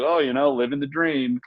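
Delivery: sarcastic. Retold or imitated. People answering "how you doing" with a worn-out phrase, mildly sarcastic. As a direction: toss it off with mild mock resignation. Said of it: "got adopted almost sarcastically".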